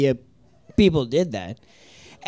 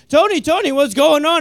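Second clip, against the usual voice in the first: put-on high, worried child voice; little sister; 10 semitones higher, 4 dB louder than usual. Six-year-old sister calling to her brother, high and worried.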